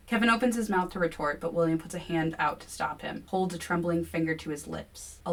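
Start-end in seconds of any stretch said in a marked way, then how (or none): none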